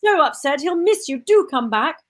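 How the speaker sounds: lightly voiced doting mother. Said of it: "pretending to be my mother".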